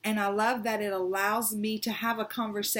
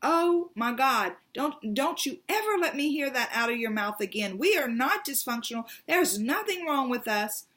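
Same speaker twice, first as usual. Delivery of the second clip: imitating angry mother; 3 semitones higher than usual. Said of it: "She got so angry at me".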